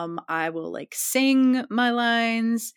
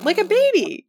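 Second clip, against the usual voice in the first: put-on baby lip trill; 13 semitones higher, 7 dB louder than usual. Shown as a demonstration. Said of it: "just, like".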